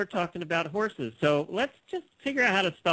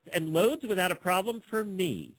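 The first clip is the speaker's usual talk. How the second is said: deliberate, swooping read for close listening; emphatic ad reading; 3 semitones higher than usual. Shown as a demonstration. Host repeats the sentence for listeners, emphatic reading. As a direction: read it with exaggerated lilt. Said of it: "let me repeat that sentence and listen closely".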